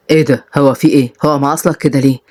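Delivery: low, mildly baffled; puzzled man. Acted. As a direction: wonder aloud at a stuck door. Man puzzled by stuck door.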